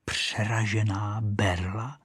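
soft, slow, puzzled rise; repeating to herself. Acted. Rocket quietly repeating the boy's words. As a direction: mull the words over quietly. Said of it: "opakovala si Rachejtle".

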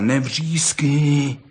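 very drawn-out hushing plea; admonishing. Acted. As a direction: reason slowly with a bawling friend. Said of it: "domlouval Pepíkovi".

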